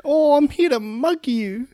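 put-on a nasty little kid robbing her with glee; cheeky orphan boy. Plays the orphan mugger.

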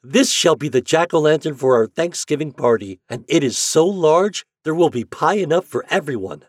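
put-on high, loud children's admiration; excited storybook crowd of children; delighted cry. A narrator's reading. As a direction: exclaim over a wonderful find like eager children. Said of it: "they cried".

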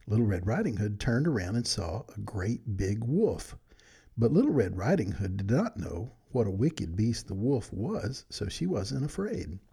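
put-on gentle read-aloud storytelling for children; bedtime story narration. A narrator's reading. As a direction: read it like a good night story to friends.

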